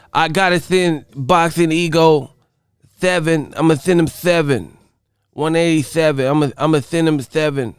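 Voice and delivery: lightly put-on lisping boxer voice; a touch of a lisp on each "seven"; Mike Tyson. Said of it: "he got that, that voice".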